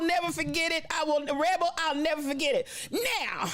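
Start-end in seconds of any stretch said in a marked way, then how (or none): 2.9-3.5 slow nasal sermon delivery, lightly imitated; mild imitation of a slow nasal preacher. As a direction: drag the words out like the solemn preacher. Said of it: "this is the way he said it too".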